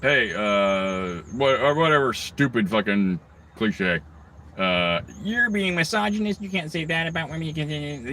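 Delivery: high, fast, whiny mock voice; mimicking a man lecturing about misogyny. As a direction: parody a preachy guy scolding you. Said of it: "men yelling at you saying".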